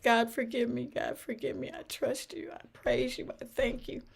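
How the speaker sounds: high-pitched retold prayer; earnest pleading prayer. Retelling how she prayed to God for forgiveness, earnest pleading.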